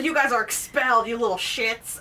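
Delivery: mock-angry telling-off with laughter; retold yelling principal. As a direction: imitate a principal expelling kids, amused. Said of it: "yells at these kids".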